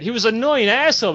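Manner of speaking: quick, irritated dismissal; indignant recounting. Acted. Guildmate explaining why they kicked him out, indignant. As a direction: rattle it off as an old grievance.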